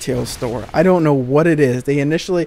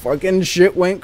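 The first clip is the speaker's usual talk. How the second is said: excited whoop; 7 semitones higher, slower than usual. Real, not acted. Celebrating his own comeback.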